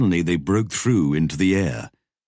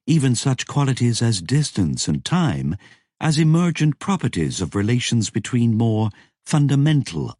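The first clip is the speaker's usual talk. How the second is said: higher, eager explaining voice; character voice; 7 semitones higher than usual. A narrator's reading. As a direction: lecture it brightly, pitched up.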